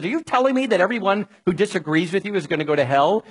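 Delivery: a hint of a sneering, fast challenge; mock sarcastic attack. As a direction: toss it off quickly like a mild mock accusation. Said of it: "they're attacking and they're sarcastic and they're mean-spirited".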